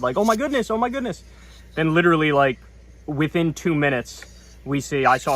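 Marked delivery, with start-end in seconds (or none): 0.2-1.2 higher, giddy gasp of hope; excited. Retold or imitated. Hearing the court news, higher excited gushing. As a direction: gush with sudden hope. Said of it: "kind of excited".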